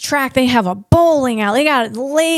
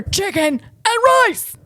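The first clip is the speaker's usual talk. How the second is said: higher, slow, sing-song exasperated reply; weary mom answer; 9 semitones higher, slower than usual. Pretend. Mom answering the family again, mock weary and high. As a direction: drag it out like the hundredth time.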